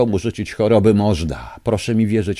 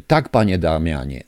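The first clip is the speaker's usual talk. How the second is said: ordinary talk, nothing marked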